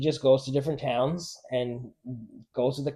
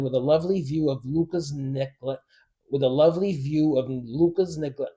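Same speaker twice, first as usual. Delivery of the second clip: mushy, tripping diction like marbles in mouth; stumbling words with marbles in mouth. Real, not acted. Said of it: "I feel like I got marbles in my mouth".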